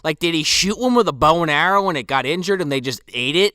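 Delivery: usual speaking voice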